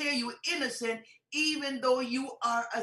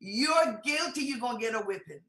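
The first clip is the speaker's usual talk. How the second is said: scolding mother. Retold or imitated. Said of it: "pronounced by your mother".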